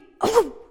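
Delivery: high, loud burst of a defibrillator jolt; loud shock noise. Acted. Preacher acting out God reviving souls, loud shock noise. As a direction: make the sudden jolt of a shock.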